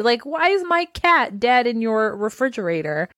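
drawn-out, rising mock bewilderment; acted shocked disbelief. Roommate finding his dead cat, imitated stunned disbelief.

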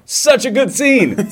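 high, drawn-out rave; gushing enthusiasm. Real, not acted. Film fan raving about a favourite scene, high slow gushing. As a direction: gush slowly, savouring every word.

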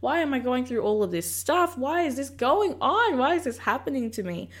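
mildly exasperated pleading, rising in pitch; protesting questions, lightly acted; complaining to God. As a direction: retell an argument with God, pitch climbing. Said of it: "fighting with God".

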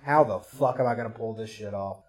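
low, quiet muttered inner voice; thinking to himself. Retold or imitated. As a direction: say it under your breath, as private thought. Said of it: "sitting there in my head like".

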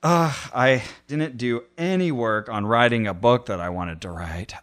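sighing, mildly self-pitying victim. Shown as a demonstration. Showing a co-host the exercise's victim voice, mildly woeful. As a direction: lay on a little woe-is-me, trailing off. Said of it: "the victim mode or victim voice".

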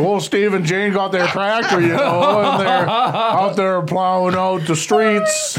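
hammed-up Midwestern drawl, slowing at the end; Midwestern accent. Teasing their own Midwestern accent, hammed-up Midwestern. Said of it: "We don't sound more Midwestern than this".

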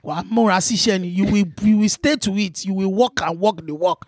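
put-on advising in a Yoruba accent. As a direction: counsel like a Yoruba man. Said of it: "mine is a Yoruba man".

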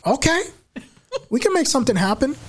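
a hint of the brash boss; lightly voiced radio boss. Imitating radio owner.

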